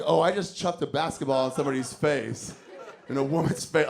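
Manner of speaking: sheepish, guilty admission; a hint of real guilt; guilty conscience. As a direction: own up to it with a wince. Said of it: "half of me was like".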